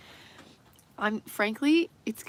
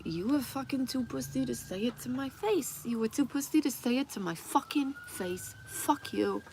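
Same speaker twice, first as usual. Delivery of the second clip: mock confrontation; 5 semitones higher than usual. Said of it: "get the opportunity to be like".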